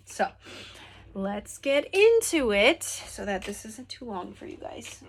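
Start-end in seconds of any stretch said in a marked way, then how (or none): 1.1-5.0 talking while crunching a snack; chewing through the words; crunching chips. Real, not acted. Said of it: "Sorry, I'm crunching on something".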